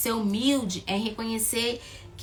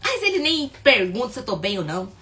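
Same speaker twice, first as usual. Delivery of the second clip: sulky complaint; 3 semitones higher, 4 dB louder than usual. Retold or imitated. Wife's complaint voiced.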